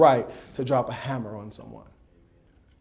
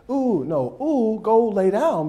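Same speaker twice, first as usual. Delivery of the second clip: loud, drawn-out groaning plea; exaggerated sick person's moan; giving in; 6 semitones higher, 5 dB louder, slower than usual. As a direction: stretch it out slow and high.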